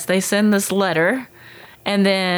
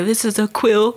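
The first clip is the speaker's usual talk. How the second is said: mock proper ancient. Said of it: "talk very anciently and very proper".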